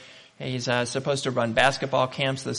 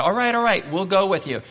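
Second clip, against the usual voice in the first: much higher, humoring all right; placating; 7 semitones higher, 4 dB louder than usual. Retold or imitated. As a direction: give in just to calm him. Couple placating the visitor.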